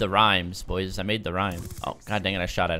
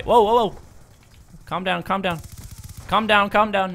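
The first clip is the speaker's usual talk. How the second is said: startled whoa; 9 semitones higher, 4 dB louder than usual. Real, not acted. Enemy shooting at him.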